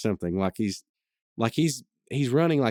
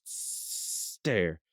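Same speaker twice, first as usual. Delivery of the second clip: referee call; 2 semitones lower, 6 dB quieter than usual. Acted. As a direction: call the start of a contest. Referee starts staring contest.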